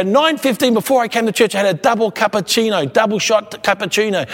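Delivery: high, eager recital; imitating loud talker. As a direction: mimic someone proudly reporting every detail. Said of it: "talk at one volume loud".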